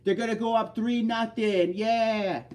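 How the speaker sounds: put-on rowdy Red Sox fan in a thick Boston accent. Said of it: "Go Sox in the Boston accent".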